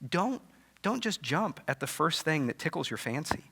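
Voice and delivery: a quiet, earnest push to think it through; lightly voiced Jesus urging patience. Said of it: "Jesus is really pushing him".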